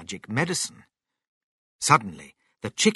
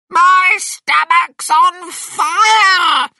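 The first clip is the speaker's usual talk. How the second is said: very high, loud, drawn-out yell; slow screeching shout; shouting Grandma; 10 dB louder, much slower than usual. A narrator's reading. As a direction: shout in alarm as a burning Grandma. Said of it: "Grandma shouted".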